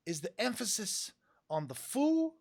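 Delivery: lightly voiced host question; retold question. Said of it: "he's like".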